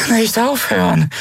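high, strained, drained croak; exhausted, thin high rasp; weak croak. A narrator's reading. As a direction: croak it out, utterly spent. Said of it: "krächzte sie matt und ausgezehrt".

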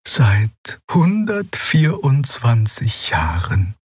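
put-on slow, humble old voice; bow your head and admit it slowly; resigned admission. A narrator's reading. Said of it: "neigte sie ergeben das Haupt".

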